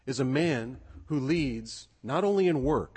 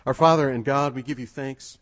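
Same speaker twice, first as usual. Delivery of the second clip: louder opening, steady prayer voice; public prayer; 7 dB louder than usual. Real, not acted. Pastor praying to God before the congregation, projected public prayer.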